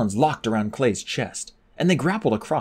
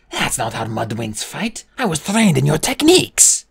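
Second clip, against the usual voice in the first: rising indignant complaint, louder at end; protest, getting louder; indignant dragon; 4 semitones higher, 5 dB louder than usual. A narrator's reading. Fjord complaining to Clay, indignant.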